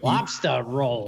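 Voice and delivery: Maine accent, slow and drawn out. Shown as a demonstration. Cohost shows how a Mainer says it, Maine accent. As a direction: model the Maine way to say it. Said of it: "do your best Mainer accent".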